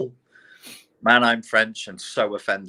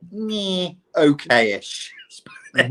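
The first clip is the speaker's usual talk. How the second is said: slow breathy laughing words; laughing whisper; 6 semitones higher, much slower than usual. Real, not acted. Self-deprecating laugh whisper.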